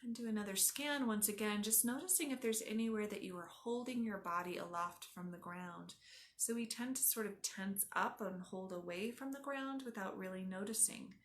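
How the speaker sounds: calm, measured body-scan instruction; yoga teacher talking a class into rest; guided relaxation. Acted. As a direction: ease them into stillness with pauses between instructions.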